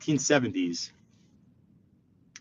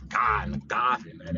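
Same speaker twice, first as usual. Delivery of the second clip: slow, drawn-out Boston vowels; mock Boston accent; 4 semitones lower, slower than usual. New Yorker mocking how Bostonians talk, slow mock Boston accent. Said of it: "Boston accent".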